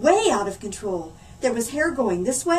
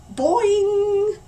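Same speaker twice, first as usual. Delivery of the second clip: groaning; 7 semitones higher, 6 dB louder, much slower than usual. Acted. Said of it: "groaned Oliver".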